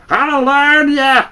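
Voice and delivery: high, slow, drawn-out squawk with the word "learn" stretched; slow cackling bird. A narrator's reading.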